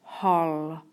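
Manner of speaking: "hol" said alone, held a little; teacher isolating the syllable "hol"; single syllable. Shown as a demonstration. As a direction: say "hol" as one separate, deliberate syllable. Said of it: "The first syllable is hol".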